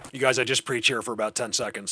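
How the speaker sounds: slight lisp on the s sounds; talking with a lisp; lispy. Real, not acted. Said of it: "lispy mic".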